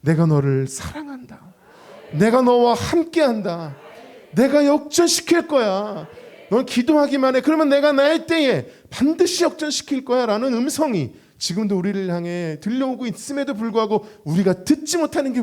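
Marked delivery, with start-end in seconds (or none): 0.0-10.2 voice of God. Acted. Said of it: "하나님께서는 우리 귓가에 말씀하십니다".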